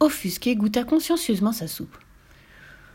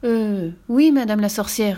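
smiling; 4 dB louder, slower than usual. Acted. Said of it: "répondit Pierre en souriant".

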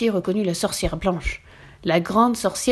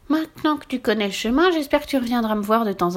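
a lonely witch asking him to visit; a hint of a hopeful witch; 3 semitones higher than usual. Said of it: "dit-elle".

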